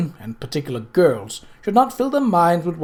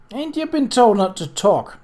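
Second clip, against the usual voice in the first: higher, sharp rough demand; 8 semitones higher, 4 dB louder than usual. A narrator's reading. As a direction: snap the question at her. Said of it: "she demanded roughly".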